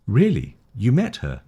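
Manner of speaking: two short questions, lifting "Really" and "met"; rising questions. Shown as a demonstration. Teacher models both questions for learners, rising question tune. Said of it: "You see both up".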